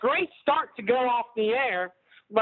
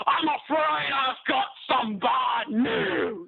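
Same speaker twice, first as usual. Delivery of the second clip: put-on Wade Barrett accent; slower than usual. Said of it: "That was my Wade Barrett accent".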